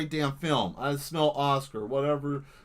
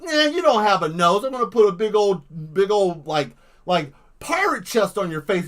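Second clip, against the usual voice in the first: mock menacing; 4 semitones higher, 5 dB louder than usual. Taunting victim while drawing.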